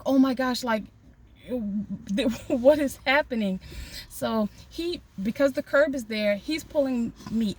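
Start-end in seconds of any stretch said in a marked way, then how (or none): 0.0-3.6 panicked disbelief, raised voice, retold. Driver retelling being pulled from the car, mock panic. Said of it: "So I'm panicking".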